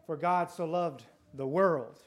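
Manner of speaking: slow, "God" leaned on hard; stress on GOD. Shown as a demonstration. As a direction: take it slowly and hit God. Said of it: "put the emphasis on different parts of the verse".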